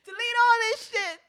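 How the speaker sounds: high, loud, half-laughing plea; pleading with her cohost to delete it, laughing. Real, not acted. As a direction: beg through laughter. Begging to cut the recording.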